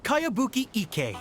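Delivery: "Kayabuki Ike" spoken clearly as KAH-yah-BOO-kee EE-keh; "Kayabuki Ike" with each syllable carefully pronounced; name said correctly. Shown as a demonstration. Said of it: "It's pronounced".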